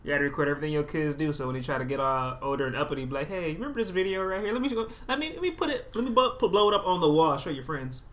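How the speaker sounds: a hint of a smug parent holding up a video; mock parent. S1 voicing a parent threatening an uppity kid with old videos, mock smug. Advising a friend, acting his line.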